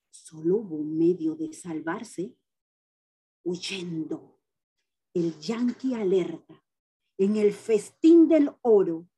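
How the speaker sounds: solemn, impassioned poem recital; grand poetry declamation. Acted. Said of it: "se los voy a declamar". (declamación poética solemne)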